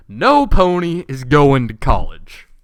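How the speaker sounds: loud, slow drawn-out yell. Acted. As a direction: shout it out word by word. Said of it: "She yells at you".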